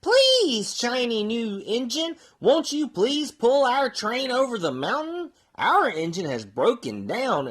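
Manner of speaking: a touch of pleading toy voices. Acted. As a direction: beg the engine like a crowd of little toys. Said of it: "cried out together".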